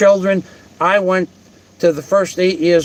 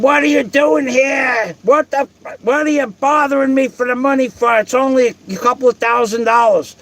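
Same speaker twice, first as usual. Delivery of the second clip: higher, indignant mock outburst; a retold indignant challenge pitched higher; retold angry demand; 5 semitones higher than usual. The other man, confronted about unpaid money, retold as an indignant higher outburst.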